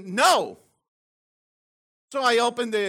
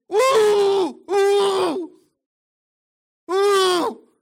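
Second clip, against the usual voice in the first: high, loud joyful woo; excited whooping; 10 semitones higher, 8 dB louder, much slower than usual. Real, not acted. Preacher whooping with joy over the verse, excited shout. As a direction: whoop like at a party. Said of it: "I'm sorry that I'm getting excited".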